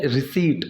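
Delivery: रिसीट said ree-SEET, with no p sound; correct pronunciation. Shown as a demonstration. Teacher correcting the class, रिसीट spoken without the p. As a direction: say रिसीट cleanly, leaving the p silent. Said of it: "इसको रिसिप्ट नहीं बोलते हैं English में".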